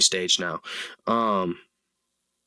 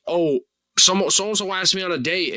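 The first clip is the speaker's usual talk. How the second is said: mock panicked dater; 7 semitones higher, 3 dB louder than usual. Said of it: "they are like".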